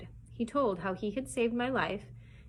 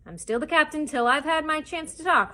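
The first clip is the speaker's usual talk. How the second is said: loud, raised pirate captain's roar; 8 semitones higher, 9 dB louder than usual. A narrator's reading. Defiant captain to mutinous crew, roaring. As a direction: roar it out high and forceful. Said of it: "roared Silver".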